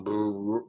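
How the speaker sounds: BRR as a long tongue-tip trill; trilled Spanish R in BRR; rolled R. Shown as a demonstration. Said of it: "they roll the tongue".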